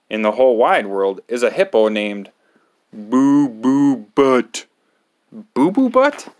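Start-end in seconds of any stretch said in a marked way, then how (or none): 3.0-4.7 silly name. Acted. Reading the silly hippo name. 5.5-6.3 very high, loud disbelief; aghast. Acted. Reader repeating the hippo's name, high shriek of disbelief.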